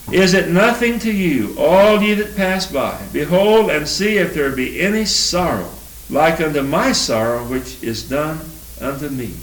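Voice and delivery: lamenting King James verse; solemn lament reading. Acted. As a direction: read it as the prophet's grief. Reads Jeremiah's lament.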